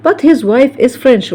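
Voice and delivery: slow, deliberate English example; careful dictation pace; slow model sentence. Shown as a demonstration. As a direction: spell it out word by word. Teacher models example sentence slowly.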